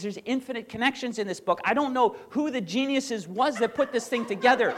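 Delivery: a touch of amazed professor; imitating Jordan Peterson. Pastor retells Peterson praising the Bible, mild excited mimicry. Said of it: "that's how he talks".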